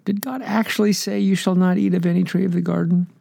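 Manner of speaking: high, sly questioning serpent. Acted. The serpent questioning the woman, sly and tempting. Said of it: "He said to the woman".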